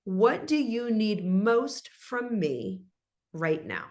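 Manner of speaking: patient soothing offer of help; calm caring question. Shown as a demonstration. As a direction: ease it out gently, leaving space. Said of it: "the second question that I love to ask is".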